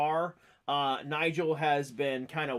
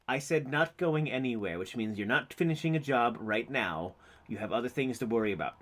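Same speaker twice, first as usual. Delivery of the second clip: lower, firm and measured; lightly voiced stern character; 6 semitones lower than usual. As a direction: put your foot down without raising your voice. Game master voices stern character.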